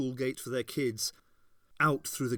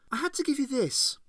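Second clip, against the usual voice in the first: put-on high, loud young girl voice, bitter; Ace's girl voice, cutting and bitter; 13 semitones higher, 4 dB louder, faster than usual. A narrator's reading. Ace to Captain Sorin, bitter and high.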